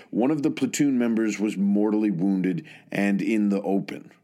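measured military history narration; scripted narration. Real, not acted. Narrator telling listeners of a soldier's service, measured scripted narration. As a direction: narrate in steady, deliberate phrases with set pauses.

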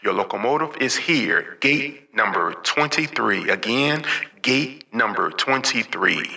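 announcer voice, calling out departures; boarding call over the station speakers; train station announcement. Pretend.

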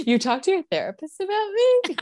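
high, loud outraged question; shocked reenactment. Retold or imitated. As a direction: act stunned and offended. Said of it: "That was good".

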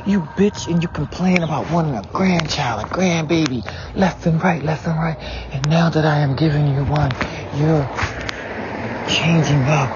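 exasperated outburst at parents. Retold or imitated. Confronting his parents in retold quote.

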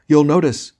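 high, loud warning; theatrical warning to oneself; grand tragic wailing. Acted. Dwarf and tragedian in unison.

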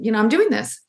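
a secret vow under the breath; whispered. Retold or imitated. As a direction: whisper it, determined. Insisting on Paris plan.

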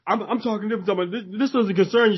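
high-pitched, flustered imitation; mock indignation. Rude customer telling the wife off, mock indignant. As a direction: play an irritated man brushing off an interruption.

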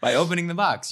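line breaking into laughter; can't keep a straight face; cracking up. Acted. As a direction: Schrodinger losing it mid-scene, laughing. Actor breaks into laughter mid-line.

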